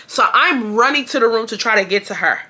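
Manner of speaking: plain reading voice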